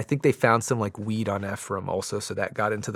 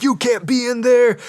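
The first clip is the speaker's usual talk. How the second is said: high, louder warning in a put-on voice; mock valet yell; 13 semitones higher, 7 dB louder than usual. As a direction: bark it like an angry valet catching a thief. Valet confronting Ephraim at cabinet.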